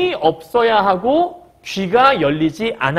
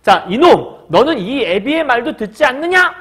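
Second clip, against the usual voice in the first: acted stern scolding; 3 semitones higher than usual. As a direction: scold your son with moderate force. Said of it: "하고 호령을 쳤어".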